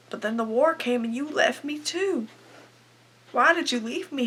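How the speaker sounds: hurt, rising cry of abandonment; wounded reproach. Acted. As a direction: plead with him, voice lifting. Acted reproach for leaving her.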